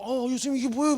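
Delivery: high-pitched flustered reaction; imitated fluster. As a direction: act out being at a loss. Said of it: "막 어쩔 줄 몰라갖고". (어쩔 줄 몰라 당황한 흉내)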